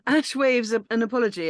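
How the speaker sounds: laughing through the words. Real, not acted. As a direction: giggle while reading.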